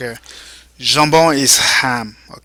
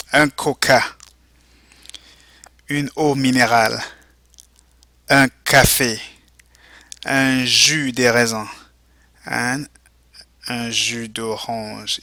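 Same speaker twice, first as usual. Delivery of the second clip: model vocabulary reading. Shown as a demonstration. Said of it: "go ahead and repeat".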